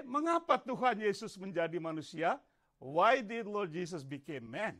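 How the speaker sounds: ordinary talk, nothing marked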